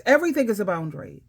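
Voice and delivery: ordinary talk, nothing marked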